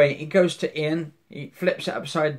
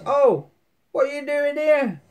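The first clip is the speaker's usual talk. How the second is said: high-pitched, startled retelling; startled question; 12 semitones higher than usual. Retold or imitated. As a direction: act out a surprised challenge, pitched right up. Acted startled find of intruder.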